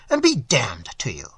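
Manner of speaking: breathed out as a whisper; whispered rough goodbye; whispered curse. Acted. Host's rough farewell.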